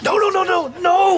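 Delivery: a priest trying to stop the announcer; rising panicked protest. Acted. To the hall, rising up to a pitched shout of no. Ted hears his scandal announced.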